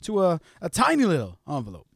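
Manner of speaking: soft narration with deliberate pauses; storyteller recap. Acted. Host recounting strange mail, soft storyteller narration. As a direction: tell the odd tale softly, piece by piece.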